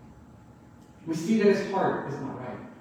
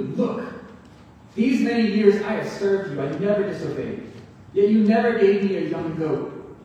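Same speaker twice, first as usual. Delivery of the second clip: louder, curt rude answer to father; rude retort; 4 dB louder than usual. Retold or imitated. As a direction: snap at father with resentment. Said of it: "Just answers him rudely".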